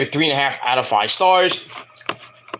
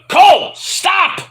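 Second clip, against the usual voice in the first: high, drawn-out mock yell to stop; shouted protest; 12 semitones higher, 4 dB louder, slower than usual. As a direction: plead loudly with the commentator. Shouts back at commentator.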